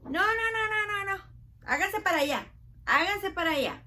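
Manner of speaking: mock stern shooing; bossy disciples. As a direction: push the crowd back like disciples. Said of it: "paraban a la gente".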